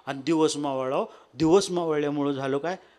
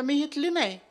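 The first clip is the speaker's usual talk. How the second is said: disguised seller; 9 semitones higher than usual. Acted. God disguised as bangle seller.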